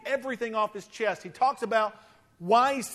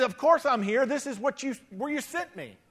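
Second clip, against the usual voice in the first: smart aleck; 4 semitones higher than usual. Retold or imitated. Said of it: "He says".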